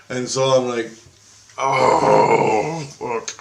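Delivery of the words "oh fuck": overwhelmed groan. Retold or imitated. Retold reaction to being told more.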